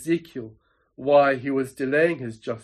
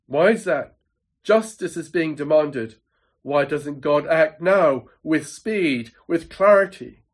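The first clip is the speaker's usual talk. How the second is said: louder, insistent voice of a questioner; demanding questioner; 3 dB louder than usual. Acted. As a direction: press God for an answer. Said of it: "And you say to me".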